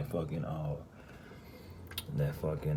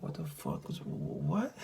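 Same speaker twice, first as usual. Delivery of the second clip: flustered; 6 semitones higher, 5 dB quieter than usual. Retold or imitated. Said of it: "I, like, backed up".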